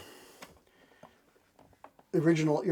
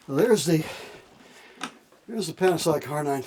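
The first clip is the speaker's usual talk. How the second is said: out of breath. Real, not acted. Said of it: "Oh, let me catch my breath".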